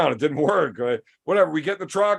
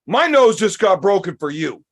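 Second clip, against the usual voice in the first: loud retold accusation; mock outraged complaint; indignant complaint; 6 dB louder than usual. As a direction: raise the voice, imitating an aggrieved friend. Acting injured friend's angry complaint.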